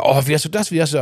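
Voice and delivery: amazed. Retold or imitated. Acts out everyone's amazed questions.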